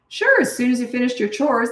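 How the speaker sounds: high-pitched, quick agreement; retold agreement. Parent granting kids' request for pool or games, high-pitched agreement. Retold cheerful reply to kids.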